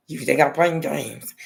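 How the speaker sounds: slowed, firmer threatening question; menacing mom again. Retold or imitated. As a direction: press the threat a bit harder. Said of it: "Like that".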